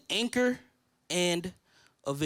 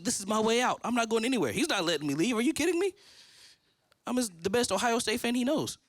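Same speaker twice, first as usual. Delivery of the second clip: retold disbelief, pitch jumping up on the question; mock incredulous confidence; 4 semitones higher than usual. Pastor recalling his sure way out, mock incredulous. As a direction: act out being sure you won't be let go. Retelling his cocky certainty he'd stay.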